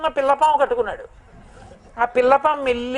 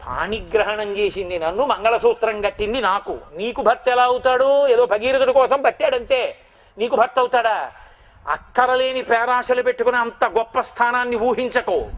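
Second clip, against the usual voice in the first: jealous rebuke. Retold or imitated. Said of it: "కళ్ళు ఎర్రగా ఇలా చూస్తుందిట".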